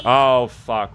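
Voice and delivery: sudden loud curse; frustrated outburst. Real, not acted. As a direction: blurt it out in shock. Sudden mishap in game.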